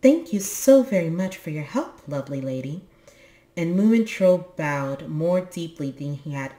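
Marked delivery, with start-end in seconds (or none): 0.0-2.8 solemn. Acted. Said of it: "said solemnly".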